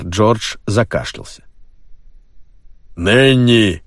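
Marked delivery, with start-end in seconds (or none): 2.9-3.8 calling out. A narrator's reading. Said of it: "крикнул Пайковый".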